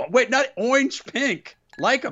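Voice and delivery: high mocking correction; Taz impression. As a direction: squeak the correction in a mock voice. Impersonating Taz correcting himself.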